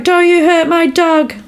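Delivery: high-pitched imitation of an upset dog owner; mock distress, pitched well up. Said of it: "like, really upset".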